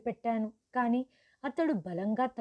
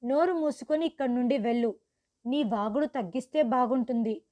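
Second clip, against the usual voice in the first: angry dismissal; 3 dB louder than usual. Acted. Angry bride ordering Rahul out of the house. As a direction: tell him off sharply. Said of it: "నాకు కోపం వచ్చింది".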